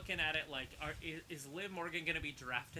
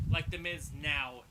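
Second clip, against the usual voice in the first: "now" stressed slowly and louder; 5 dB louder, slower than usual. Shown as a demonstration. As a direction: lean on "now" in "Like The Miz now". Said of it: "not The Miz five years ago".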